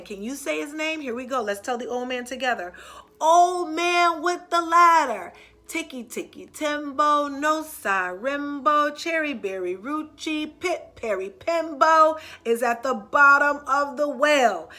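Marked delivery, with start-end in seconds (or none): 3.2-14.7 louder, slow urgent call; shouting. Acted. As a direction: shout it out with the last breath. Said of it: "he shouted at the old man".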